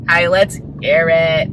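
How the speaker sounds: slow, put-on French accent; slow English with a French lilt; playful French accent. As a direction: drag it out in a mock French accent. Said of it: "speaking English in a French accent".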